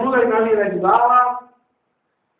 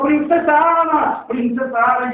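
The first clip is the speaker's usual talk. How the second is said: calling out for someone lost; acted searching cry, easing off on the repeat; shouted call; 3 semitones higher than usual. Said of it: "él siguió gritando".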